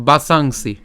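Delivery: বাসাংসি with long "saang" before a short "si"; careful teacher's demonstration of বাসাংসি; Sanskrit pronunciation demo. Shown as a demonstration. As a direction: model বাসাংসি as baa-saang-si. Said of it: "প্রথমে উচ্চারণ হচ্ছে কি?".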